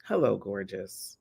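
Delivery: tender greeting. Shown as a demonstration. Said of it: "I literally started with".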